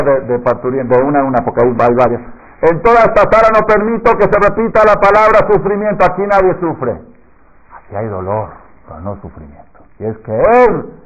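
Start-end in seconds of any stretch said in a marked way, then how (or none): 2.6-6.9 much higher and louder, in a put-on old woman's voice; commanding midwife. Anciana partera prohíbe el sufrimiento, voz alta y fuerte. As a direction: decree it to the ward. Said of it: "así dijo".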